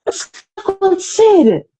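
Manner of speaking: high, tearful cry of bewilderment; choro reencenado. Retold or imitated. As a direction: relive breaking into tears, voice soaring in pitch. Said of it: "eu comecei a chorar no quarto". (voz chorosa e aguda, revivendo o choro)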